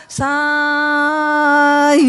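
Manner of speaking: "Sayang" with a very long, loud first syllable; drawn-out stroke. Shown as a demonstration. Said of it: "kalau panjang kan".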